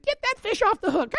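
put-on high, far-off child's holler across the water; kids calling out. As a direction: mimic the boys yelling from the boat. Sons calling out on the lake.

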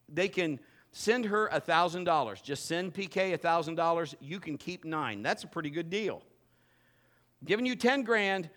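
ordinary talk, nothing marked

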